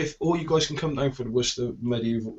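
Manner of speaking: usual speaking voice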